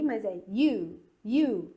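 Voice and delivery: "you" said like the English word you; letter U the English way. Shown as a demonstration. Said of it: "o U tem um sonzinho de I".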